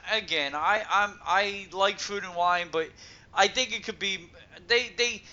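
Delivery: stammering, repeating words; tripping over repeated words; stuttering. Real, not acted. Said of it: "I know I'm stuttering".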